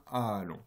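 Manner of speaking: "A" held long; drawn-out vowel. Shown as a demonstration. Lecturer naming the lengthened vowel, "A" drawn out. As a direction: stretch the "A" to show its length. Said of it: "vous avez un A long".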